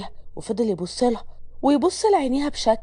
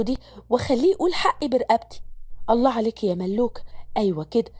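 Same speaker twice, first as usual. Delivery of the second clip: lower, motherly instructing voice; older mother; 3 semitones lower than usual. Acted. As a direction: warn the new girl kindly but firmly. Narrator voices mother Yousreya. (يسرية بتنصح ملك عن ابنها، بصوت أم أوطى وحنين)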